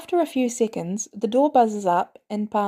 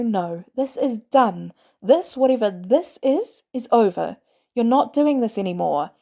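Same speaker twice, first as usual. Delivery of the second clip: angry; 3 semitones higher, 3 dB louder than usual. Acted. May laying down law.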